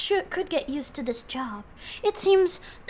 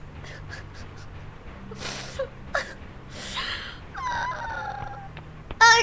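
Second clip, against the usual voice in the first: long airless wheezing laugh; high breathless laugh; 5 dB quieter than usual. Real, not acted. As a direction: laugh until no voice comes out. Long laugh after a taunt.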